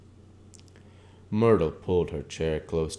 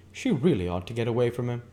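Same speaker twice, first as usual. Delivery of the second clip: Catherine gossiping; 6 semitones higher, 4 dB louder, faster than usual. Acted. Catherine confides to narrator.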